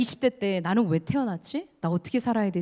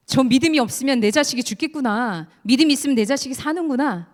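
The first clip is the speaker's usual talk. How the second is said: desperate father; 4 semitones higher, 4 dB louder than usual. Acted.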